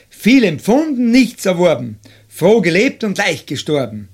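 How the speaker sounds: measured, emphatic epitaph reading; verse recitation. Acted. Reading a poet's gravestone verse aloud to listeners, measured recitation. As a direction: recite the rhymes slowly, leaning on each opening word.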